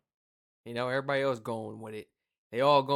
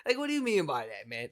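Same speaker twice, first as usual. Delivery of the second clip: loud, obnoxious challenge. Retold or imitated. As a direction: challenge them as if causing a scene. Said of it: "I'm getting loud and I'm being obnoxious".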